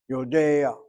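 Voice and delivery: Yodea with a throaty Ayin before the final a; guttural Ayin. Shown as a demonstration. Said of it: "But the Ah is sounded before the Ayin".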